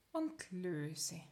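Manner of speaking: soft unvoiced whisper. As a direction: breathe the words out. Relaxation cue, whispered release.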